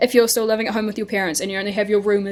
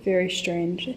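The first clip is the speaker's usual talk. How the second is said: echoey room; 4 dB quieter than usual. Real, not acted. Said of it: "It's so echoey in here".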